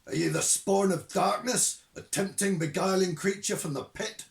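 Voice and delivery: loud, high hellfire ranting; old witchhunter thundering down the phone at a supposed demon; Shadwell's rant. Acted. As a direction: rail against the spawn of darkness, slowing on the worst words.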